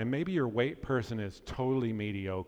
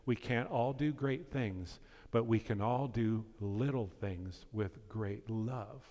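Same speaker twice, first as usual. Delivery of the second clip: quoted motto; 3 dB quieter than usual. Shown as a demonstration. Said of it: "summed up in this statement".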